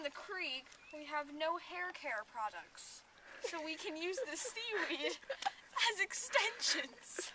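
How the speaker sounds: breathy whispered joke. Real, not acted. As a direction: whisper it with a laugh.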